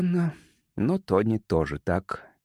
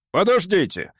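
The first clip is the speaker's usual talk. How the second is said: higher-pitched sudden call; moderately raised exclamation; alarmed cry; 7 semitones higher, 3 dB louder than usual. A narrator's reading. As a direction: call out to stop them. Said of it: "вскрикнул Гилмен".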